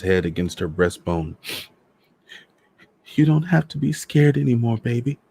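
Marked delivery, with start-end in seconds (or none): 3.1-5.2 high-pitched, tender comforting; wife's high, fragile reassurance; soothing a loved one. A narrator's reading. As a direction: soothe him in a high voice, like a child. Wife soothing her dead husband.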